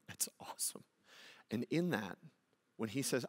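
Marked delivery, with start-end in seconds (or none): 0.1-0.9 whispered, very soft marvelling; hushed awe. Real, not acted. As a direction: breathe it out in a whisper. Preacher marvels after the yes.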